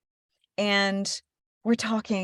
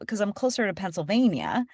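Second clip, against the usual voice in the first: ordinary talk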